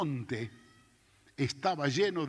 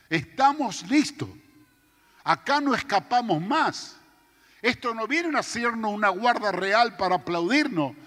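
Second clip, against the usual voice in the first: panicked shouting; 6 semitones higher than usual. Retold or imitated. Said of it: "hablando a los gritos".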